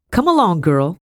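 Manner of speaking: high, loud impatient order; sharp snap. A narrator's reading. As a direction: snap at the girl to hurry. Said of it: "she snapped".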